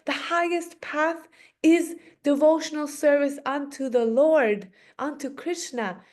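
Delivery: storyteller's mock indignation; mild indignant rebuke. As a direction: rebuke a proud scholar. Nimai rebukes Murari for his preaching.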